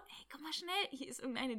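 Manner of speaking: high-pitched imitation of calling a colleague over; mock calling over. Office worker summons a colleague about a confused tourist, mock calling. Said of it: "Rief dann die Nächste aus irgendeinem Büro".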